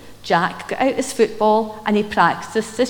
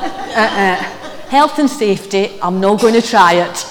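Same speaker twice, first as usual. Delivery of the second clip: laughing; 2 semitones lower, 5 dB louder than usual. Retold or imitated. Joking about skipping in cassock.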